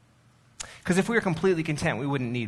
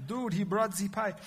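put-on playful German accent, a touch higher; a bad fake German accent again; 7 semitones higher than usual. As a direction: redo the mock German line, lighter now. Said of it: "so that's the worst".

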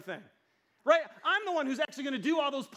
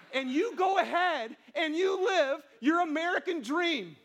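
louder, slow, mocking challenge; sarcastic dare; 4 semitones higher, 6 dB louder than usual. Real, not acted. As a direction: throw it at them like a scornful dare. Sarcastic dare to comfortable Americans.

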